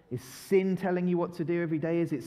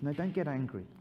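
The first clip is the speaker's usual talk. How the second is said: soft, calm, fading gentler; God gently calming an angry child; gentle voice of God; 3 dB quieter than usual. Acted. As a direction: reassure them softly. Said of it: "God calls to us and says".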